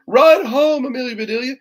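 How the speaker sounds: high, loud urging shout. A narrator's reading. Boys shouting to the runner, high and loud. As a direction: call her home, hard. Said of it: "shouted the boys".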